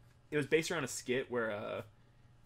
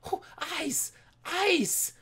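mock surprise; 7 semitones higher, 4 dB louder, much slower than usual. Bright light in game.

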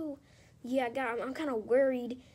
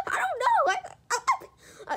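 laughing; 5 dB louder, slower than usual. Acted. Laughing through the fight.

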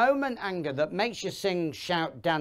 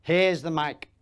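slightly raised, mock-polite concession; mock deference; 3 semitones higher, 3 dB louder than usual. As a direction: humour the heckler with exaggerated courtesy. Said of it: "hand them the microphone".

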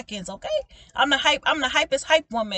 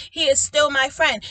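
preached climax; 3 semitones higher, 6 dB louder than usual. Acted. Preaching climax then quiet restatement.

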